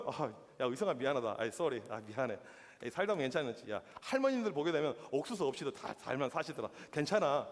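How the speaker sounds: a hint of a hammed-up sorry pastor; lightly voiced sheepish apology; mock apology. Pastor voices his own apology.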